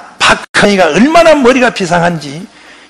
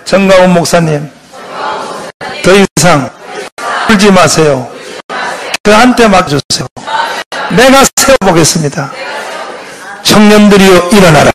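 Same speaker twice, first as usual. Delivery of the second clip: call and response; 2 semitones lower than usual. Shown as a demonstration. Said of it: "따라해봐요".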